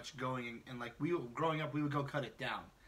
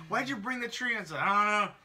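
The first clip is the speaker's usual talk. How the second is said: mock drunk inventor; 6 semitones higher, 6 dB louder than usual. Drunk person inventing Christmas.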